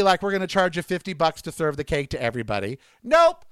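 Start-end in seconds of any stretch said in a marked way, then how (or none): 3.0-3.4 louder, higher scornful nope; emphatic nope. Real, not acted. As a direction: throw the nope out with disgust. Repeated emphatic refusal.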